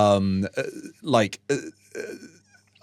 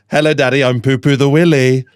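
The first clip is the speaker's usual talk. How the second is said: a hint of an excited toddler announcing himself; loud little-boy announcement, lightly done; small boy's proud greeting, barely voiced; 4 dB louder than usual. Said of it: "he goes".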